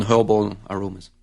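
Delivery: herbal in a French accent, first syllable sounding close to "horrible". Real, not acted. Winemaker in a French accent, describing the wine's aromas. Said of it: "he's not saying horrible".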